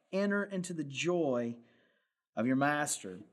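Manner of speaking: measured, deliberate scripture reading; preacher reading the parable to the congregation. Acted. Reads scripture passage aloud.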